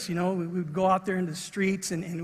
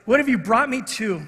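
retold alarm; 3 semitones higher, 4 dB louder than usual. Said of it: "his eyes were like this".

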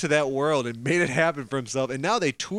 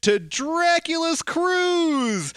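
booming prize announcer; 5 semitones higher than usual. Acted. Podcast intro as prize announcement.

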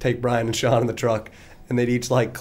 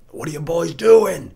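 higher, louder, slow cop challenge; stern cop voice; 6 semitones higher, 6 dB louder, slower than usual. Retold or imitated. Cop to boys parked in the dark, mock stern. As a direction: play the cop demanding answers, louder. Cop shining light on car.

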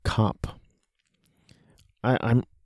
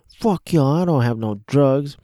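mildly agitated mock protest, pitched up; agitated man; 3 semitones higher than usual. Reviewer imitating a rapper's wheelchair character, mildly agitated. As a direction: imitate an irritated denial, lightly heated. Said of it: "He's agitated".

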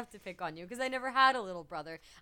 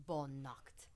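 soft whisper; whispered farewell; 6 semitones lower, 12 dB quieter, slower than usual. A narrator's reading. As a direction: breathe the farewell. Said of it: "and said".

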